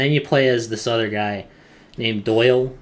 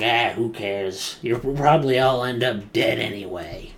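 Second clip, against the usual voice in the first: careless commander. Retold or imitated. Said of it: "he's like".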